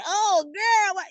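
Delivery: a friend's high, appalled what; imitating a friend's dismay; mock shock. Friend cringing at the birth.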